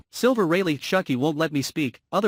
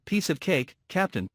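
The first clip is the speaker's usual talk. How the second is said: calm; 3 dB quieter than usual. Acted. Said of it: "calmly saying".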